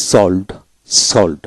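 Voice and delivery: সল্ড with an ou vowel before ld; ou vowel sounded. Shown as a demonstration. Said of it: "অর্থাৎ ঔকার উচ্চারিত হয়". (সল্ড, ঔকার দিয়ে)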